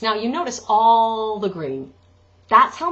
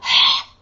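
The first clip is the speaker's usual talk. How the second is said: airy open sigh; breathy sigh; 7 dB louder than usual. Shown as a demonstration. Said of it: "we don't want".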